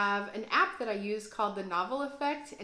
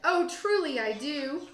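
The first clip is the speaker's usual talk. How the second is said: a hint of hooting Fred; 5 semitones higher, 4 dB louder than usual. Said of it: "Fred hooted".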